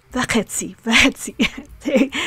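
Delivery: v'chetzi with a quick va and the stress on chetzi. Shown as a demonstration. Teacher showing students the rapid stressed v'chetzi. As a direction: clip the va and hit chetzi. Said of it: "rapidly spoken".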